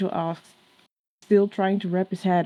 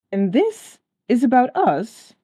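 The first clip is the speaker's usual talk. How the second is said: incredulous; 3 semitones higher, 6 dB louder, slower than usual. Acted. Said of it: "he asked incredulously".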